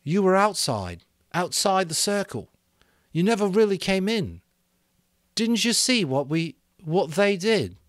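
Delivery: put-on high, loud, pained boy; anguished Ralph. Ralph pleading with Piggy over what they did. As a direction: plead to be understood.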